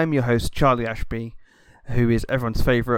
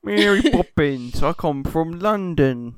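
Dick Van Dyke cockney; 3 semitones higher, slower than usual. Acted. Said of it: "just Dick Van Dyke it".

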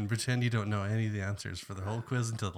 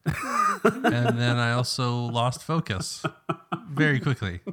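chuckling through words; laughing; slower than usual. Real, not acted. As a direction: laugh as you say it. Laughing while telling.

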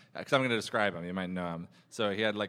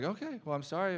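overly nice waiter; 8 semitones higher, 4 dB quieter than usual. Retold or imitated. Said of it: "the nicest, weirdest guys".

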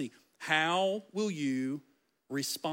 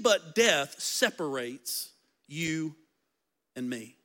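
solemn vow. Acted. Ruth's vow read solemnly.

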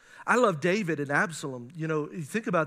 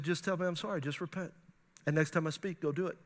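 soft inner voice of God; 2 semitones lower, 5 dB quieter than usual. Retold or imitated. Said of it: "He said".

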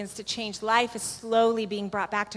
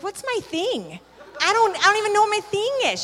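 high, loud, laughing disbelief; laughing bewilderment; 11 semitones higher, 7 dB louder than usual. Real, not acted. Told by her boss to do her thing, laughing in confusion.

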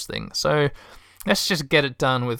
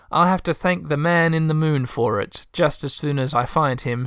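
lightly voiced Texan hostess; Texan lady joking along; Texan accent. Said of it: "a Texan accent".

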